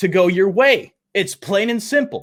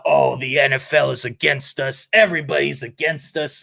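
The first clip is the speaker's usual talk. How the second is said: mock whining; 4 semitones lower than usual. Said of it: "get this bullshit about".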